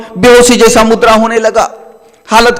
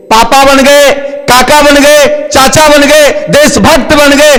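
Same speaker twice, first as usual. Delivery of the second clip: building sermon list; 5 semitones higher than usual. Real, not acted. Preacher builds list of roles.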